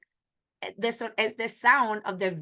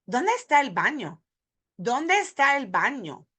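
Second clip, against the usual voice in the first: "¿Dónde está el baño?" linked in a single flowing phrase; one breath group; 4 semitones higher than usual. Shown as a demonstration. Teacher shows the linked breath-group version for learners. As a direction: run the words together in one breath. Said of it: "when we put it in a breath group".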